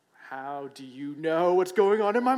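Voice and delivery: freaked out cry. Acted. Freaked-out man to the mind reader, loud and spooked. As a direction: cry it out like you're truly rattled.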